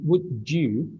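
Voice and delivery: "would you" run together as "would-joo"; linked "would you" with a J sound; natural linked speech. Shown as a demonstration. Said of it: "in natural speaking".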